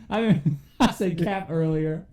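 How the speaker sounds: slow, lightly put-on Australian accent; mock Australian accent. Teasing his cohost in a mild Australian accent. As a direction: drawl it out in a bit of Australian. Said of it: "That was Australia".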